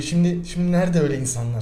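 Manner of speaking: lightly voiced old-timer, mild lament; nostalgic old-timer impression. Mocking a nostalgic man to his co-host, lightly lamenting. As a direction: sigh out a hint of "where are such people now". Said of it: "adam taklidi yapayım mı".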